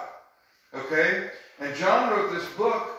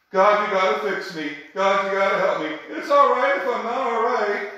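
whining, self-pitying plea to God, louder; mock whiny prayer; 4 semitones higher, 5 dB louder than usual. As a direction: parody a needy prayer, pleading and loud. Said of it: "Most Christian songs are about me".

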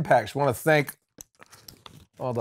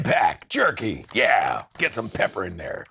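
mouth full; 6 semitones lower than usual. Real, not acted. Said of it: "I'm chewing".

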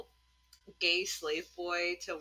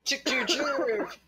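slow, drawn-out chick calls; calling chickens; 4 semitones higher, much slower than usual. Acted. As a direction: call the hens in, slowly.

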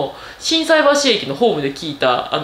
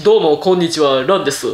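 low-toned voice; 5 semitones lower than usual. Shown as a demonstration. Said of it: "低いトーンで喋ったら多分いい声になると思います".

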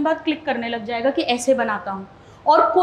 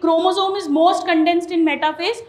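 slow dictation; 2 semitones higher, much slower than usual. Shown as a demonstration. Teacher reading the swapped assertion slowly to students. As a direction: read the swapped statement slowly, word by word. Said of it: "अब assertion बन गया".

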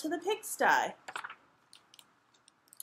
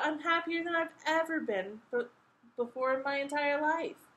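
high, sustained, glad voice; raised-pitch happiness; happy declaration; 6 semitones higher than usual. A narrator's reading. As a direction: declare it like a delighted child. Happy princess answers her father.

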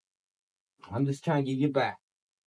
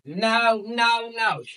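startled no; 8 semitones higher, much slower than usual. Real, not acted. Dog shakes water off.

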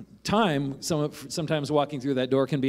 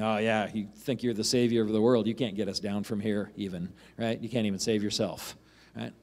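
mocking; 4 semitones lower, 3 dB quieter than usual. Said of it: "he is saying it mocking".

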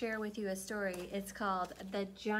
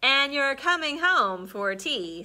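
fond mother; 4 semitones higher, 10 dB louder than usual. Acted. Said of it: "said Mama Frog".

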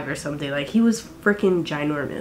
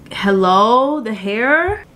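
drawn-out questioning call with rising ends; mock exasperation; much slower than usual. Vlogger calling out her uncooperative hair, mock exasperated. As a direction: stretch it out like calling out a culprit.

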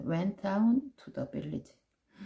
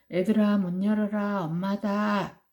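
tiger posing as mother; 3 semitones higher than usual. Acted. Tiger at the door to children, put-on mother voice. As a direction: coax the kids to open up. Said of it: "호랑이가 이렇게 말했어".

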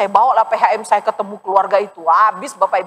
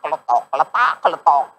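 shoe clatter sound; 5 semitones lower than usual. Retold or imitated. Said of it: "datang tuh bunyi keletak".

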